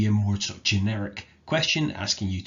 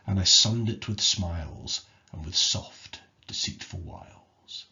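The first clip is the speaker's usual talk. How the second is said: bitter, menacing reading. Shown as a demonstration. Teacher reading Blake's poem to show a sinister tone. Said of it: "thinking about how I said that out".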